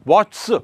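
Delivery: वॉट्स with an extra s stuck on after the ch; awkward pronunciation. Shown as a demonstration. Teacher showing students a hard plural, वॉट्स with laboured ch-plus-s ending. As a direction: force a hissed s onto the end of वॉट्स. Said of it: "बहुत कठिन हो रहा".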